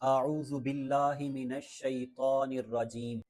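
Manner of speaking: measured Arabic recitation; recitation demo. Shown as a demonstration. Teacher models the taawwuz for learners, measured recitation. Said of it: "سب سے پہلے تعوذ".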